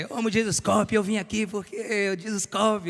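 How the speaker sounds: high, gushing fan voice of a church lady; imitating a church sister. Pastor retells a sister gushing to him. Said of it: "Aí".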